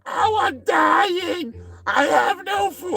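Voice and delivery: high, slow, wailing mock Korean accent; a starving man complaining, in an exaggerated Korean accent. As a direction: whine it out in a hammed-up Korean accent. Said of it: "I'm being Korean".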